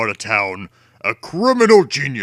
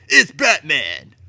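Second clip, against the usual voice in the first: alarmed cry; 5 semitones higher, 7 dB louder than usual. A narrator's reading. Thug crying out in alarm.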